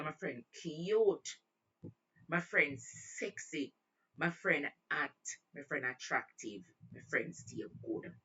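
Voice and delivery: slow, stretched praise of a friend; drawn-out hyping. Retold or imitated. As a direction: linger on each compliment.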